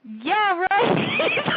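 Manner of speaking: high, mocking "yeah, right"; sarcastic scoff at online comments calling her ugly. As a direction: brush the insult off with scorn. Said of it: "I'm just like".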